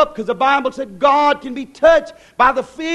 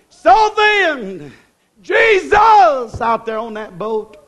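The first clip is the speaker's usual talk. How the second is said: slow shout; 2 semitones higher, 3 dB louder, much slower than usual. Real, not acted. Preacher shouts slowly.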